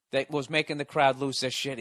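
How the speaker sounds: normal talking voice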